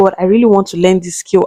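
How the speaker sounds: normal talking voice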